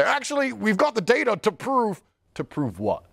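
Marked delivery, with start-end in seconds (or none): 0.0-2.0 mock know-it-all. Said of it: "people come to me and say".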